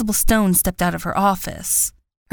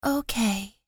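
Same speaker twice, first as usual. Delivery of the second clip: slowly and calmly; 4 semitones higher, 5 dB quieter than usual. A narrator's reading. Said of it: "Ava said slowly and calmly".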